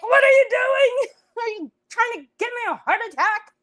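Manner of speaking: high, loud exasperated shriek; alarmed mock-hysterical shout; retold yell. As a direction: re-enact frantic scolding, speeding up. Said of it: "Then I yelled".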